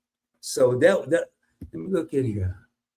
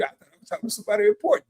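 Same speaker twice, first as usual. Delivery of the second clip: mock disappointment; much faster than usual. Teasing worker in blue shirt.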